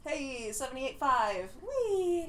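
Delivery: drawn-out, happy little cheer; slow 'hey', then a high 'whee'; playful cheer. Real, not acted. Co-host celebrates a number, playful cheer.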